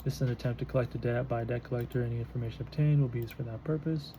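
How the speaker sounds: firm debt collector. Shown as a demonstration. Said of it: "You gotta know your mini, uh, mini Mirandas".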